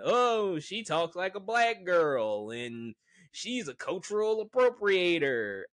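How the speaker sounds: put-on voice of the haters; mock complaining. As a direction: imitate a whiny critic piling on. Voicing haters' complaint about the actress.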